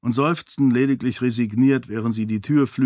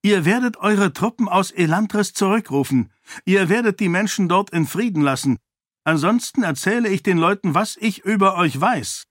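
a much higher, hard, threatening voice; cold threat; 8 semitones higher than usual. A narrator's reading. Sarene threatens to expose the king, hard and cold. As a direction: threaten him calmly but fiercely.

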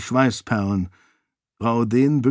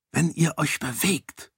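quiet threat; 4 semitones higher, 5 dB quieter than usual. A narrator's reading. Raoden quietly threatens the guard, soft and menacing. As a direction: say it softly so it chills. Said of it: "sagte Raoden leise".

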